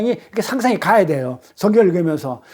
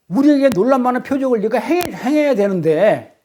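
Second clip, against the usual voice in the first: acted defiant challenge; 4 semitones higher than usual. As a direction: throw down a mock challenge, pitched up in places. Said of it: "하면서 대들었어요". (대들듯 따져 묻는 흉내)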